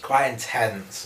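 talking while sucking sweet; slightly muffled puckered speech; candy in mouth. Real, not acted. Seen 0: Unclear who speaks; both show pursed, puffed mouths, sucking candy throughout.

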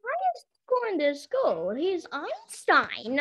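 mock awe, stretching out the last words; exaggerated impressed repeat; hammed-up amazement. Hammed-up echo of the teacher's praise.

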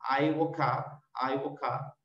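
I WOKE UP run together as "ai-wokap"; teacher's joined-up "I woke up"; read straight through. Shown as a demonstration. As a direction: link "woke" into "up" without a break. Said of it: "de, de corrido".

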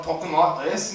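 lightly put-on English accent. Shown as a demonstration. Comic explaining how colonists first talked, English accent. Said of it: "the English people start coming over".

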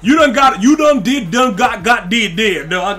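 laughing tease. Real, not acted. Laughing teasing Tron in dialect.

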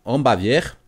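hammed-up reading with a hint of German accent; amateur German-accent impersonation, punchy delivery. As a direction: play the German announcer, accent put on. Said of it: "je fais l'accent allemand".

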